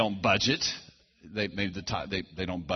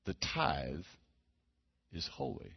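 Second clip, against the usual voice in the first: "The tithe is holy" repeated low and much softer; repeated softly; 3 semitones lower, 9 dB quieter than usual. Shown as a demonstration. Preacher repeating the Lord's words to the congregation, soft and low. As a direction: let "The tithe is holy" sink into a hush. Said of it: "He said".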